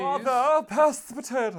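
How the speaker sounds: high booming royal command; booming warrior king. Pretend. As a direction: bellow it like a king down a long table. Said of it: "royal voice".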